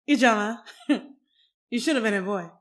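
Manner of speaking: lightly voiced delighted mother with a chuckle; happy, laughing mother. Mother to daughter imitating the king's moves, amused and laughing. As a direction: chuckle after the name, acting a pleased mother. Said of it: "my mother says with such happiness and laughter".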